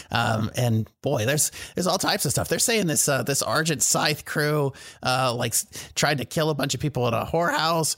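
high, chatty merchant; shopkeeper voice. Acted. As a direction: play the shrewd shopkeeper. GM continues as Yanov.

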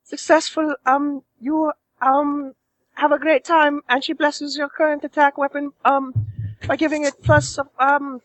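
lightly voiced sultry woman; Roz voice. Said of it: "to the Roz voice".

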